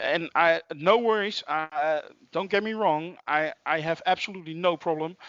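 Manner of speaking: getting worked up, pitch jumping on disclaimers. Real, not acted. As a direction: insist emphatically, a little heated. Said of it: "I get worked up about".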